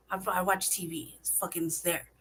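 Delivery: ordinary delivery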